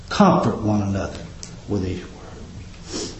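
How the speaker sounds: fading down to a breathless hush. Acted. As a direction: let the last words fall to a whisper. Sermon line dropping to hush.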